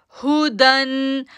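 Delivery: हुदन chanted slowly with nothing stretched; slow tajweed chant; recited short. Shown as a demonstration. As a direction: recite हुदन without drawing it out. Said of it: "इसलिए हम इसको खींचेंगे नहीं".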